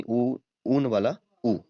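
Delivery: उ stretched slowly like a teacher sounding it out; drawn-out vowel demo. Shown as a demonstration. Teacher slowly sounding out उ for Hindi students. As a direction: sound out उ slowly, mouth rounded, for the class. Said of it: "अच्छा ऊन वाला उल्लू नहीं".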